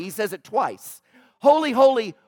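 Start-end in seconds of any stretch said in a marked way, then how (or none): 1.4-2.2 loud, raised cry of praise. Acted. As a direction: call it out high and loud. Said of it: "they're crying out the infinite holiness".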